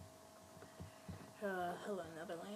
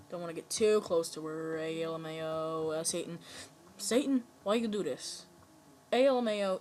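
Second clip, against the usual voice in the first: panicked yelling; 9 dB louder than usual. Real, not acted. Panicked as creature eats players.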